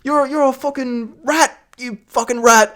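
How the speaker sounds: mock Irish lad picking a fight; Irish accent. Imitating drunk lads arguing, Irish accent. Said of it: "I'm not gonna do my Irish accent".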